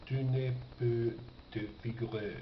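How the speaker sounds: usual speaking voice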